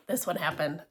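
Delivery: breathy hushed whisper, building suspense. Real, not acted. Telling listeners about the gift, in a hushed whisper. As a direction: lean in and whisper it like a secret.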